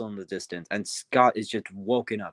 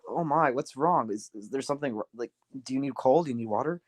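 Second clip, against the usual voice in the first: mildly worried, halting questions; 2 semitones higher than usual. Acted. Kind engine checking on a lost newcomer, worried. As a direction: fuss gently over a stranger. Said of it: "he's all worried for him".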